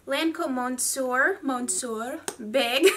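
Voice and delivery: badly faked French accent; slow, hammed-up attempt at a French accent. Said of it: "you are not good at accents".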